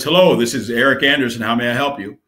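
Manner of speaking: lightly put-on corporate phone greeting. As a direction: answer with a touch of stiff, businesslike formality. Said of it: "in this real corporate voice".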